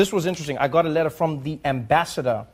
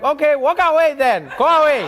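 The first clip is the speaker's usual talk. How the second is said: dismissive operator; 10 semitones higher, 6 dB louder than usual. Retold or imitated. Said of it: "Be like".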